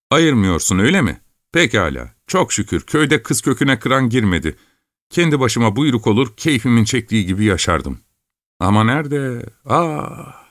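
put-on a restless farm boy dreaming of money; young peasant lad. A narrator's reading.

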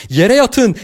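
high-pitched urgent warning cry; shouting. A narrator's reading. Kane pulling everyone to the floor, shouting. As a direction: yell the order, pitch way up. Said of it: "diye bağırdı Kane".

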